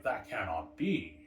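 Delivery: retold disbelief, slow and deliberate; shocked disbelief. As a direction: slowly act out a crowd that can't believe it. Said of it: "They're shocked, obviously".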